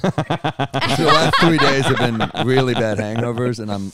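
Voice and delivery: groggy hungover voice. Real, not acted. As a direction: speak through a bad hangover. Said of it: "I'm hungover right now".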